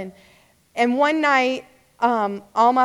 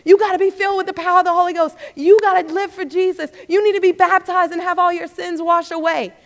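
raised, fast, urgent preaching; louder, rushed, pleading with passing students; campus street preaching; 4 semitones higher, 3 dB louder, faster than usual. Retold or imitated. Urging students on campus to be filled, raised and fast. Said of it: "I was hoarse in my voice going across Nichols campus telling people".

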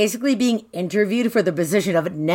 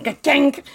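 higher-pitched "ka-tink" noise; imitated sound effect; 4 semitones higher than usual. Imitating what it sounded like, a clinking sound effect. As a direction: voice a quick metallic clink. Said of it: "it made it sound like".

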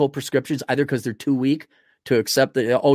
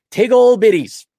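playful spoonerism; 8 semitones higher, 8 dB louder than usual. Pretend. Playful spoonerism of big old titties.

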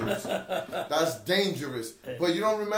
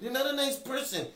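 higher mock echo of the gadget line; mimicking the device; 8 semitones higher than usual. Friend copies gadget insult, mock high echo. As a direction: parrot the gadget, a little higher. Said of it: "Insults. Here you go".

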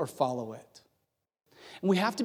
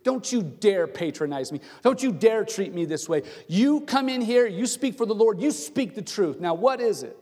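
acted indignant anger, moderately raised; furious demand; 3 semitones higher than usual. Offended King Ahab demands the truth from Micaiah, indignant. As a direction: scold him for his audacity, measured outrage. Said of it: "it made Ahab furious".

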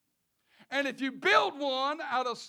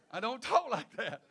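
laughing; 2 semitones lower, 4 dB quieter than usual. Real, not acted. Laughing aside.

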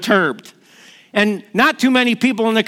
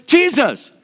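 high, half-raised mock yell; retold cry for help; 7 semitones higher than usual. Peter cries out to Jesus as he sinks, retold yell. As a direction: call out higher, as if sinking. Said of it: "yell out to him".

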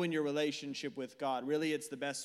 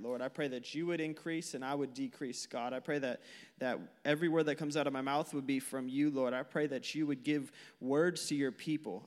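opening prayer; 3 semitones lower than usual. Acted. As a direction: pray to open the sermon, low and sincere.

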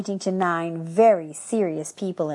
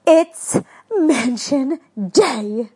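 excited call; 6 semitones higher, 6 dB louder, much slower than usual. Acted. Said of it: "and yelled".

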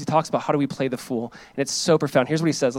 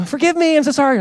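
much higher, overdone whiny plea; mock apology again; 11 semitones higher, 5 dB louder than usual. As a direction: exaggerate the same fake sorry. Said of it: "They hurt you".

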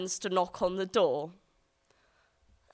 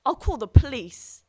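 slow, much louder threatening mum; mock angry threat; 4 semitones higher, 11 dB louder than usual. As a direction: lean in hard, slowly threatening. Mum threatens accused child.

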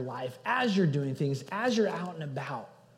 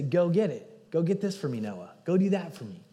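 put-on louder, firm order to a little kid; parental command; 3 semitones higher, 6 dB louder than usual. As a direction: tell the child to go do it, raised voice. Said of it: "It's kind of a command".

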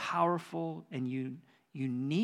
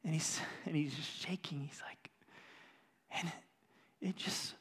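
hushed; 8 dB quieter than usual. Real, not acted. Pastor hushed describing Tom shaking.

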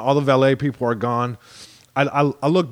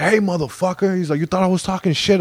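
imitated street challenge, pitched up; mock aggression; 6 semitones higher than usual. Dude runs up to comic, mock aggression. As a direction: act out a confrontational stranger, lightly.

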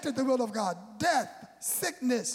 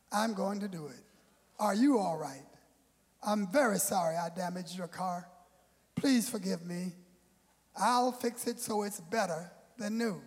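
a humble apology, lower and softer; sincere apology; 5 semitones lower, 4 dB quieter than usual. Pretend. Preacher playing the driver who owns up to the crash, humble and sincere. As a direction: soften down and plead for forgiveness with real regret. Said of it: "What you really want me to do is say".

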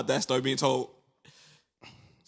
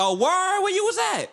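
much higher mock barber voice; imitating the barber; 3 dB louder than usual. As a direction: ask it like a curious barber. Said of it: "He's like".

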